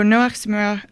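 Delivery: "Zmura" with French-sounding vowels, ending swallowed to "zmuh"; French accent. Real, not acted. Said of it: "sorry, my French accent came out".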